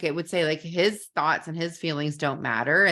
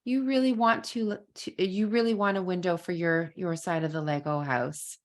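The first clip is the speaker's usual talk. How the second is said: empathetic matching tone. Retold or imitated. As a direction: gently echo his feeling back to him. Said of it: "let my tone of voice and my facial expression match".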